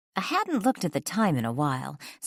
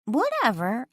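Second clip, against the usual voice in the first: grumbling; 10 semitones higher than usual. A narrator's reading. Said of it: "I grumbled".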